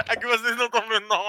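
breathless after laughter; laughing it off, winded; after laughing hard. Real, not acted. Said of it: "fiquei vermelho".

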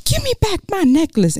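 high-pitched, dramatic demand; acted demand. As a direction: play the upset movie heroine. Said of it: "she was like".

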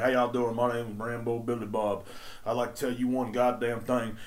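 lightly voiced redneck introduction; redneck impression. Rambo Billy Bob introducing himself, lightly voiced redneck. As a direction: introduce yourself in a slight country-man voice. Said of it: "redneck sounds like that in my head".

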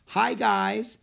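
put-on high eager girl's voice; bright young Annie; little girl voice. Annie greets seals.

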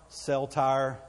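"cell tire" with tower said as Texan "tire"; Texas-accented cell tower. Shown as a demonstration. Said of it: "It's all the same word".

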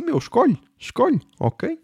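high, insistent "pick one"; urging. Real, not acted. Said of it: "urging listeners to choose".

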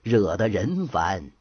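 slow, measured rhymed recitation; storyteller's verse. A narrator's reading. Narrator closing the tale with a moral verse, slowly recited. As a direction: recite it slowly, drawing out each line.

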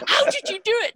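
a cop who is floored by her luck; amazed cop. Retold or imitated. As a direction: ask it in open amazement. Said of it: "He said".

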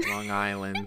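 a teasing, breathy whisper of the place name "Long Island". Pretend. Podcast cohost teasing his partner about her location, whispered. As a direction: hush it like a secret: "Long Island".

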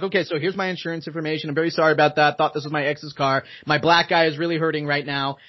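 understated, businesslike information exchange; retold official politeness, toned down; mock governmental. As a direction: lightly imitate a dry, administrative apology. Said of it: "started being very governmental".

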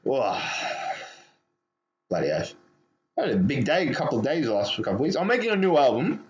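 talking while smoking; words around a cigarette; cigarette in mouth. Real, not acted. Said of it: "I'm smoking a cigarette right now".

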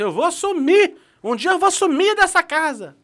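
high, slow, wailing threat to vanish; dramatic aunt. Retold or imitated. Aunt threatening to leave the house, high and dramatic. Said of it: "a tia irmã assim".

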